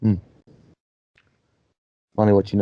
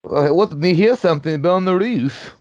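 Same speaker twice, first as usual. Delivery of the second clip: dog voice; 5 semitones higher, 3 dB louder than usual. Retold or imitated. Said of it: "That's what that dog said".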